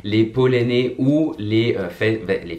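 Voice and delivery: slowed down, stumbling over words; slow, struggling. Real, not acted. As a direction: drag the words out while struggling. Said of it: "J'ai vraiment trop du mal".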